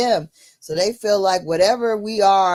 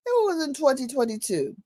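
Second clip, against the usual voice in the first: higher, soothing mock assistant; phone AI voice; 5 semitones higher, 3 dB quieter than usual. The AI sympathizing with her, lightly put-on assistant voice. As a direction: soothe her like the polite AI, pitched up. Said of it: "talking to me in a British voice".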